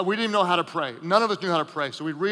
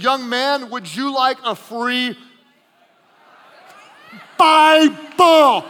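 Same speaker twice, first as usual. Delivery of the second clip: put-on kindly old Gideon; 4 semitones higher, 8 dB louder, much slower than usual. Gideon offering a Bible.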